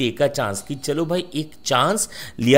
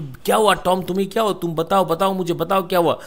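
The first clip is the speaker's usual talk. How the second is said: higher, insistent questioning; rapid-fire pleading, only lightly raised; mild mock yelling; 4 semitones higher, faster than usual. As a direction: imitate someone anxiously demanding an answer. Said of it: "Sid continue चिल्ला रहा है".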